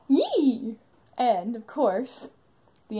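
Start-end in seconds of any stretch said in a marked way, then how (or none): 0.1-0.8 imitated excited yee. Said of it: "he's excited, so he goes".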